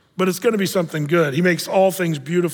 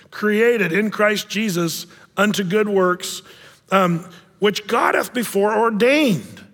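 scripture reading; slower than usual. Acted.

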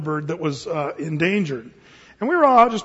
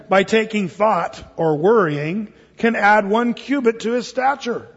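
slow, measured King James reading; scripture reading; 2 semitones higher, slower than usual. Acted. Pastor reading Matthew aloud in a slow scripture cadence. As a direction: lay the verse out slowly for the flock.

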